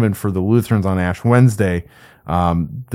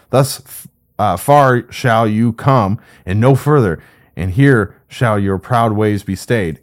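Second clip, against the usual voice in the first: scripture reading; 2 semitones higher than usual. Acted. Teacher reading God's whirlwind speech to the class, raised scripture reading. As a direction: proclaim the Lord's questions from the whirlwind.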